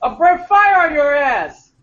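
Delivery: slow, high threatening dragon; Samuel L. Jackson dragon. Retold or imitated. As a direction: menace them like a dragon. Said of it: "Samuel L. Jackson as a dragon".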